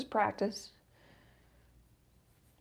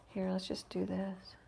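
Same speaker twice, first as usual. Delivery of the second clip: nose whistling while talking; 8 dB quieter than usual. Real, not acted. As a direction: breathe through a whistling nose. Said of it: "My nose is whistling".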